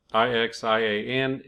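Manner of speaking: spelled letter by letter. Shown as a demonstration. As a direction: say I X I A N as separate letters. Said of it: "I hope that that's how you say it".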